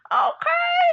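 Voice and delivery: sharp high shouted okay. Real, not acted. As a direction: yell it to drive it home. Shouted rant punchline.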